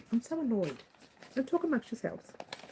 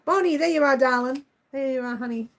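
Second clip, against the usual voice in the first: cooing greeting; 2 semitones higher, 3 dB louder than usual. Real, not acted. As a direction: greet the cat fondly.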